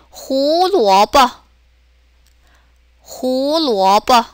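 호루어버 drawn out, with a short light 버; slow 호루어버, toneless quick last syllable; neutral-tone ending. Shown as a demonstration. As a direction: model 호루어버 slowly, clipping only 버. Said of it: "짧고 간단하게".

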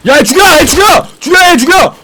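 high, loud battle yell; shouting. Real, not acted. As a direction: bark the order to attack. Yelling orders during fight.

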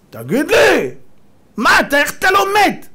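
high, loud astonished demand; incredulous outburst. Acted. Preacher asks the prime minister how he survives, incredulous. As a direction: burst out in loud disbelief.

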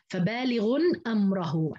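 فبالغ أمره as fa-baalighun amrahu; tanween, open ra. Shown as a demonstration. Teacher summing up others' reading, tanween and open ra. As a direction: add n to فبالغ, then amrahu. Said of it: "عند باقي الرواة".

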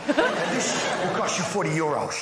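Dutch tour seller naming the price; put-on Dutch accent. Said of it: "Hell in a Dutch accent".

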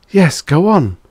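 high, loud urging; forceful command, pitched well up. A narrator's reading. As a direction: order him onward. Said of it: "the voice commanded".

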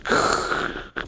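short voiceless burst of radio static; imitated radio static. Haunted radio crackling at a frightened daughter, imitated static. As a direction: hiss like a radio between frequencies. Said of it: "using, like, a frequency".

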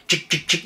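imitated little chomping clicks; teeth snapping shut. Storyteller showing the mink's near-miss bite, snapping sound. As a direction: mimic tiny teeth snapping in quick succession. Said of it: "you can hear the little teeth snap shut".

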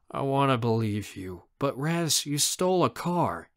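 mildly weary uncle; a touch of tiredness, reluctant; tired voice. Acted. Uncle doubts his nephew Raz, mildly tired. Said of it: "he says in a tired voice".

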